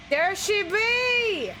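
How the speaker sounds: slow, stretched exclamation; drawn out. Pretend. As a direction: stretch every word out. Drawn out pirate-ish.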